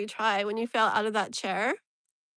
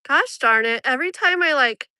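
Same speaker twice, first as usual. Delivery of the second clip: frustrated outburst; 2 semitones higher, 7 dB louder than usual. Real, not acted. Frustrated with camera.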